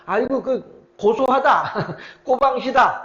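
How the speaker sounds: slow jeering words that break into a laugh; mocking gloat. Shimei jeers at David, laughing. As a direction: gloat over the fleeing king with a sneering laugh. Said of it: "하면서 저주를 하는 거예요".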